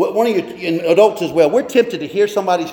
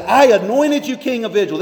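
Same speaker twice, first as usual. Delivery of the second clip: I anointed you king of Israel with the I raised and leaned on; I pitched up in a reading of God's words; stress on I; 5 semitones higher than usual. Retold or imitated. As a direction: lean on the I, as God speaking. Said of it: "he said".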